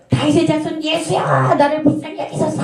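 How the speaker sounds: high, strained imitation of a desperate cry; imitated earnest call, pitched high; pleading outcry. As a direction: cry out for mercy, holding back from a full shout. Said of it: "소리는 못 질르지만 그렇게 간절하게 외쳤어요".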